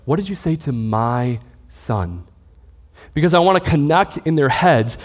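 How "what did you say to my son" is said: soft, pointed repeat of a father's question; tender. Retold or imitated. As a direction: gently press the child, leaning on "my son". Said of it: "I'll say very tenderly".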